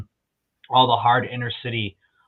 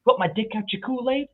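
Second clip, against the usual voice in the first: imitating a drill sergeant, higher and higher toward the end; drill sergeant impression; 10 semitones higher than usual. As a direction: bark it like a mocking drill instructor. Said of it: "he always would say".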